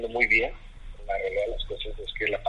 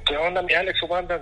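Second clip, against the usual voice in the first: higher-pitched, friendly hello; retold hearty greeting; 6 semitones higher than usual. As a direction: greet an old buddy on the phone. Retold hearty greeting to old teammate.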